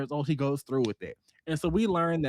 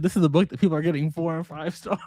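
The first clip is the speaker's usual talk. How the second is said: laughing disbelief; 4 semitones higher, 4 dB louder than usual. Retold or imitated. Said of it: "And I said".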